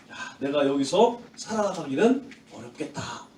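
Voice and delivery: low, hushed thinking aloud; acted quiet resignation; inner thought. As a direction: drop low and soft as if realizing it privately. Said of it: "그런 생각이 들었을 거예요".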